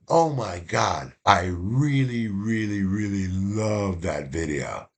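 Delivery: slow, drawn-out gushing; a mild imitation of a gushing student. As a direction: stretch each really like a smitten student. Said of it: "the way she said".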